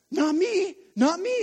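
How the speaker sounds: put-on high, loud childish denial; kids protesting. Kids denying to dad about the toilet, high whiny protest. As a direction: squeal it like guilty kids. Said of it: "the kids are like".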